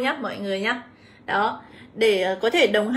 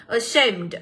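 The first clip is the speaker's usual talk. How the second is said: "ashamed" stressed on SHAMED; short schwa opening "ashamed", stress on the A sound after; stress on second syllable. Shown as a demonstration. Teacher reading option C, "ashamed" stressed on its second syllable. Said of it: "Nó sẽ là âm số hai".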